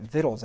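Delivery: VICTUALS spelt letter by letter, V I C T U A L S; V I C T U A L S as individual letter names. Shown as a demonstration. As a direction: spell out V I C T U A L S, each letter separate. Spelling the word out loud.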